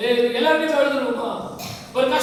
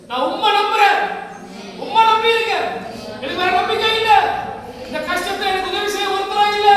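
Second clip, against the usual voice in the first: higher-pitched, earnest plea to God; pleading prayer; 3 semitones higher than usual. Acted. Preacher voicing a believer who trusts only God, pleading. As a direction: plead as one with no other help.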